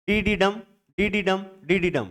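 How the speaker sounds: डी डी डम in repeated light-light-strong feet; stress on final syllable. Shown as a demonstration. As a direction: beat out डी डी डम, landing on डम. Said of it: "पहले दो syllable अनिश्चेष स्टेश".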